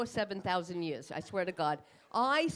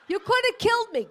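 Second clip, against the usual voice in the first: much higher, louder mock shriek; 12 semitones higher, 8 dB louder than usual. To the driver who cut her off, a high mock shriek. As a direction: shriek it like a near-miss victim. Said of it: "pretend road rage line".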